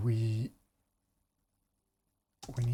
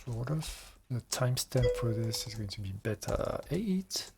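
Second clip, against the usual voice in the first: gulping. Real, not acted. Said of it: "Sorry for the gulping noises".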